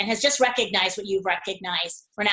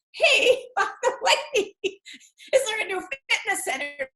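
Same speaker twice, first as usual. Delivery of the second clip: high, laughing through the words; laughing question; 11 semitones higher, slower than usual. Retold or imitated. Analyst calling other stores, asking through laughter. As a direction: giggle while asking.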